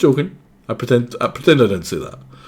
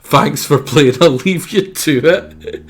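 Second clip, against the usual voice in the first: a lightly put-on, slower polite farewell; mock sign-off voice; 4 semitones higher, 5 dB louder, slower than usual. Mocking the game, a lightly voiced polite farewell. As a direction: sign off like a bored game host.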